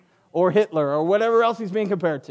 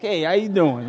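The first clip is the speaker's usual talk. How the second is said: New York style. Shown as a demonstration. Preacher shows the congregation his accidental New York style greeting. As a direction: toss out a hello in a New York accent. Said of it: "I gotta go New York style".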